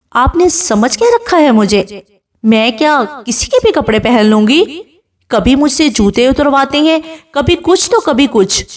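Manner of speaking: understated indignant protest; angry retort. Acted. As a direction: bride mildly snapping back at her husband. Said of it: "سوہا غصے سے کہتی ہے".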